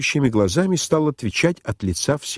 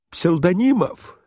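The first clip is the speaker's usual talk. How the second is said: high, drawn-out call at ordinary volume; calling for help; 6 semitones higher than usual. A narrator's reading. General calling his host to rescue him, restrained cry. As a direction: call the name high, holding back volume. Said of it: "кричал Иван Ильич".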